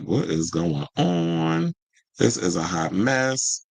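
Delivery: slow, exasperated complaint; irritated. Real, not acted. Streamer to viewers about the frozen page, slow and irritated. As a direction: drag it out, fed up. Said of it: "I'm getting irritated".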